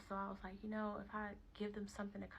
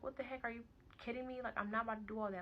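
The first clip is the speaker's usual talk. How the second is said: higher-pitched exasperated disbelief; retold irritation, pitched up; irritated; 4 semitones higher than usual. Mother fed up with waiting on baby's father, irritated. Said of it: "I'm irritated 'cause I really was like".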